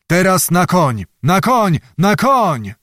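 rally the troops at once; urgent command. Acted. Commander orders mounting up.

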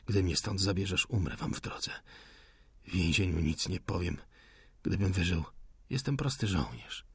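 wounded soldier's faint reply; weak, quiet resolve. Acted. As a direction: speak from pain, quietly firm. Wounded prisoner refuses to go.

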